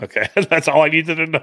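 laughing loudly and high. Real, not acted. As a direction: laugh it out in amusement. Laughs at Kentucky news.

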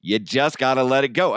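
normal talking voice

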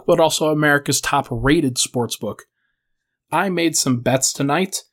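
upbeat podcast sponsor read. Acted. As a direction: pitch it like a host ad. Host reads sponsor ad.

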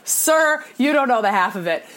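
high, sassy comeback; cocky retort. Retold or imitated. To Harry the store clerk, a cocky high comeback. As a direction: show him you know hockey.

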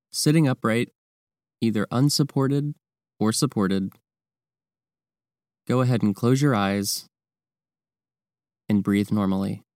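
calm, measured meditation guidance with long pauses; guided meditation. Real, not acted. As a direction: guide the listener through breathing, leaving space between phrases. Leads the breathing practice.

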